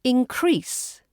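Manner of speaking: inCREASE, second syllable high and drawn out; stress on second syllable. Shown as a demonstration. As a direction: hit CREASE in "increase". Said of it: "But as a verb".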